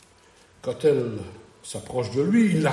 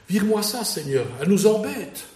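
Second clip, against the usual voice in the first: mildly exasperated, pitch lifted; lightly acted irritation; annoyed disciples; 5 semitones higher than usual. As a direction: voice the fed-up disciples wanting her gone. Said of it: "Ils sont contrariés".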